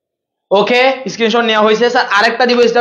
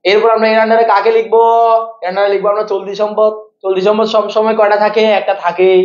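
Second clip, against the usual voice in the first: waz preacher style. Shown as a demonstration. Teacher showing students how preachers deliver waz, sermon chant. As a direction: recite it like an Islamic waz sermon. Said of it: "একটু বুঝাই দিচ্ছি ওয়াজের style".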